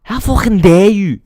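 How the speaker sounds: lightly hammed indignant pundit; mock outrage. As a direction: play the offended pundit. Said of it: "Roy Keane said it".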